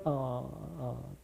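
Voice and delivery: normal talking voice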